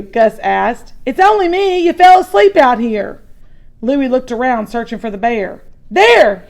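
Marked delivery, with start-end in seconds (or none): 1.1-3.2 calming brother. Acted. Brother reassuring the frightened boy. 5.9-6.4 high, loud warning cry; alarmed shout. Acted. Boy sees the bear and shouts a warning. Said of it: "he shouted".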